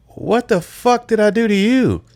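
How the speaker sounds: high-pitched mock outrage at being accused; incredulous, squeaky retort; retold indignant disbelief. Retelling his shocked comeback to seatmate.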